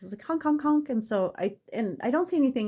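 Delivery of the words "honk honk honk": imitated honking. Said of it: "like, a couple honks".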